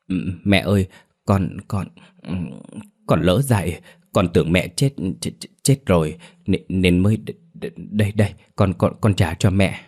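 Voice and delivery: stuttering, halting confession; fearful stammer. Acted. Daughter-in-law confessing to the corpse she robbed, frightened stammer. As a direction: stammer the apology through fear.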